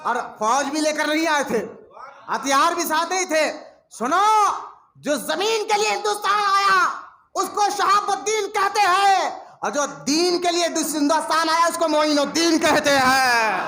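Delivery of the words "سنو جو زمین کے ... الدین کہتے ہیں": grab the crowd with a raised call; rising sermon call. Real, not acted. Preacher calls audience to listen. (بلند آواز میں وعظ کی پکار)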